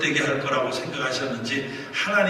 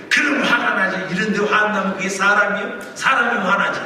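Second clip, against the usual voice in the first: higher-pitched, indignant protest; retold angry retort; 4 semitones higher than usual. Pastor answers God inwardly while singing, retold angry protest. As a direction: argue back heatedly, imitating your own fuming. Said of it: "막 이러면서 화가 막 나서".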